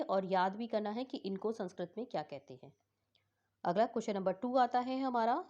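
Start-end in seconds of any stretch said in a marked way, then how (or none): 0.0-2.7 hushed aside to the class; whisper. Real, not acted. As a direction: whisper it like a side note. Teacher reminder, unvoiced.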